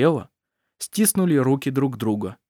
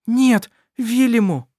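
high, loud, slow cry; exclaiming; 12 semitones higher, 5 dB louder, slower than usual. A narrator's reading. Mother exclaiming to stop Vilyamu, loud. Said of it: "воскликнула Эрмелин".

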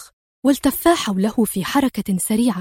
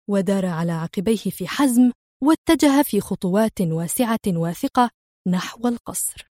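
plain reading voice

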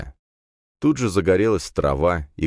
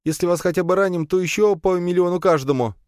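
put-on higher scared young man; frightened lad; 13 semitones higher than usual. A narrator's reading. Captive lad confesses to the heroes, scared. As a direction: answer fast and nervous.

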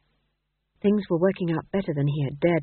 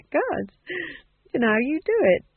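relieved, nervous actor; 9 semitones higher than usual. A narrator's reading. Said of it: "relaxed a bit and gave a nervous giggle".

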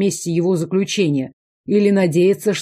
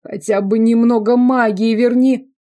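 high, louder whining plea; begging; 5 semitones higher, 4 dB louder than usual. A narrator's reading. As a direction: wheedle for a little magic. Prisoner begging. (высокая ноющая просьба)

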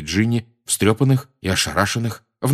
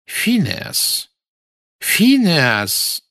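calling out; 9 semitones higher, much slower than usual. A narrator's reading. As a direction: call out to wake him. Calling sleeping portrait. (громкий оклик по имени)

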